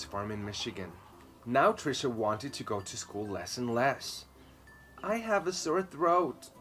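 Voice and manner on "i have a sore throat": slow, higher put-on sick voice; fake sick voice. A narrator's reading. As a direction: play sick for mother. Faking illness to mother.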